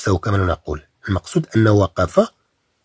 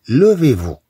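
mock teacher command; 4 semitones higher, much slower than usual. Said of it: "الأستاذ ممكن يقول لك".

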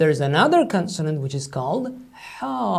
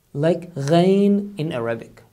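ordinary talk

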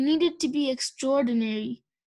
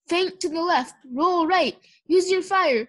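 barked commands; 4 semitones higher, 4 dB louder than usual. Acted. Trainer barks fight commands.

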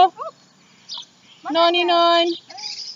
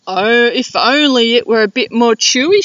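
sighing; 3 dB louder than usual. Acted. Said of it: "she sighed".

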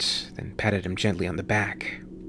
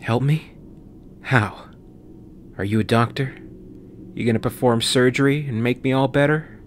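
sarcastic; 3 semitones higher than usual. Acted. Sarcastic scoff at her offer.

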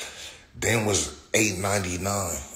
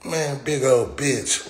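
high, slow drawn-out awe; mock wide-eyed surprise at a big dog; awed at big dog; 6 semitones higher, much slower than usual. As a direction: gawk at the huge dog slowly. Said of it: "you be like".

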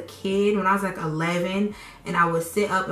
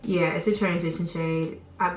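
with braces. Real, not acted. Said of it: "I can't talk with these braces".

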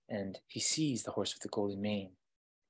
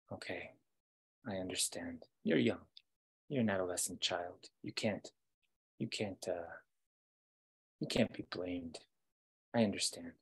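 forgiving wolf; 2 semitones lower, 4 dB quieter than usual. Acted. Wolf forgives the young prince.

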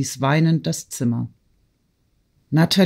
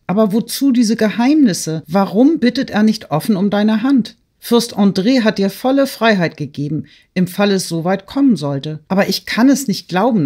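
raised, emphatic, incredulous challenge; urgent questioning; 6 semitones higher, 4 dB louder than usual. A narrator's reading. Friend challenging the secrecy of the suitor, urgent and doubtful. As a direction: press the point, higher and louder.

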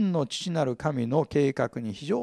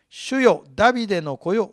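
pleading call, higher and louder; crying out; 5 semitones higher, 5 dB louder than usual. Retold or imitated. Preacher voicing the Canaanite woman's desperate cry. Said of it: "イエスのところに来て叫びます。".

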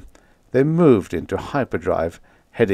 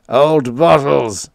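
put-on slow, high, loud crazy old man; crazed cackling; 6 semitones higher, 6 dB louder, slower than usual. A narrator's reading. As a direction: cackle it out, dragging the words. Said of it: "Lowen kept cackling".

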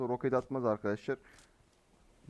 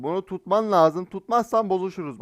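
"bunu tutman lazım" repeated louder and higher; insisting louder on the repeat; insistent repeat; 4 semitones higher, 4 dB louder than usual. Real, not acted. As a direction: press the point the second time, louder.

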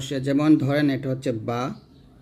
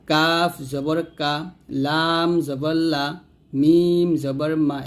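read-along drill. Shown as a demonstration. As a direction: draw out each letter name, then land the syllable. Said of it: "এরকম".

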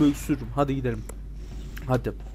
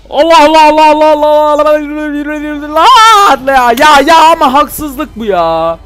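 frustrated shout; 11 semitones higher, 13 dB louder than usual. Real, not acted. Frustrated outburst at game failure.

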